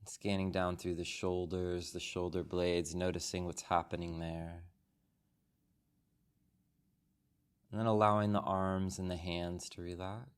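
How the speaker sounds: calm, unhurried meditation guide, long pauses between phrases; soothing body-scan delivery with room to breathe; guided meditation. Real, not acted. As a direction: guide the group gently into stillness, phrase by phrase. Leads a guided meditation after the bell.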